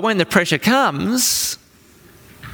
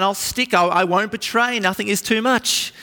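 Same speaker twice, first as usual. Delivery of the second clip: emphatic Peter; 3 semitones higher than usual. Retold or imitated. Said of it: "Peter famously is emphatic".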